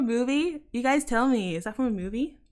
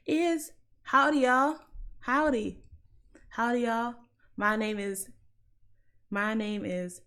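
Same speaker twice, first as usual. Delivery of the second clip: attempted American accent. Shown as a demonstration. Londoner testing an American accent for viewers, tentative American twang. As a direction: try out a drawn American accent. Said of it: "try to do an American accent".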